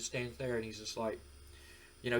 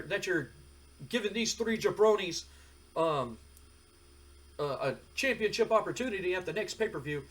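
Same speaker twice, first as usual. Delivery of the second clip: frustrated Rock; 6 semitones higher than usual. Retold or imitated. Rock complains to Vince.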